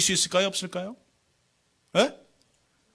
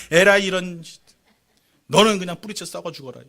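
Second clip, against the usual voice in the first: mock curse; 6 dB louder than usual. Cursing the Judas tree.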